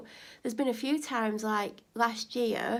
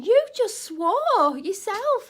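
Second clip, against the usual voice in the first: loud, higher, slow disbelief; incredulous thought; 10 semitones higher, 9 dB louder, much slower than usual. Retold or imitated. Thinking the neighbour just swore herself. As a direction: drag it out in disbelief. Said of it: "I'm thinking".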